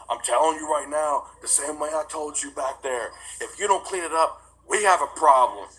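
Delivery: mock stern warning. Judge warning him in court about the mess, mock stern. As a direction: lay down the law, lightly acted.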